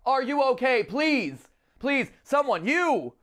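high, loud hammy panic; overacted training-tape distress cry; stilted old movie melodrama. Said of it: "all the over-the-top cheesy acting".

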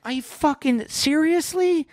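slow, high-pitched disbelief; high incredulous squeal. Retold or imitated. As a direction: drag it out in a squeaky outraged voice. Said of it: "I'm like".

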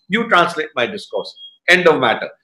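low, final command; retold firm order. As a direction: imitate a master closing the argument. Retold Swami closing the argument.

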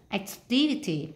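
activity, drawn out with "TIV" stressed; ac-TIV-ity, slow teacher's demonstration; stress on second syllable. Shown as a demonstration. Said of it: "chúng ta nhấn vào âm hai này".

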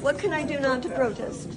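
tearful, exhausted voice; crying, worn out. Real, not acted. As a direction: speak through tears, worn down. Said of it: "but I can't stop crying".

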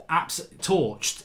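normal talking voice

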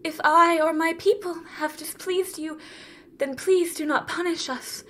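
urgent begging for mercy; anxious, deferential supplication; frightened pleading. Acted. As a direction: beg your lord, pausing between pleas. Empress begs her lord for mercy.

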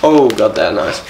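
talking while eating; chewing crisps. Real, not acted. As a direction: mouth partly full. Seen 0: Speaker holding the bag and bringing crisps to his mouth while commenting.

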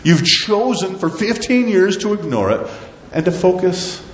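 mildly stern divine scolding; God's rebuke. Acted. God rebukes the people for neglecting his house, stern.

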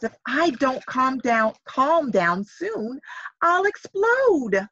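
slowly building frustration that bursts; building to explode. Acted. Dolly about to explode.

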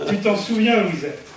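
measured verse, a pause after each line; poem recitation. Acted. Speaker reads her verse to the gathered friends, poem recitation. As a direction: recite homemade rhymes, line by line.

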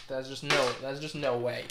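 loud flat refusal; emphatic refusal. Real, not acted.

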